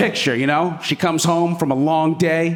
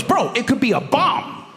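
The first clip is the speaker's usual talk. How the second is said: worried buddy; 9 semitones higher than usual. Retold or imitated. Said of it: "He goes".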